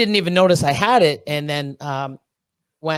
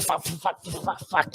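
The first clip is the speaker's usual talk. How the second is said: imitating tics; 9 dB quieter than usual. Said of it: "when you see Tourette's, it's like".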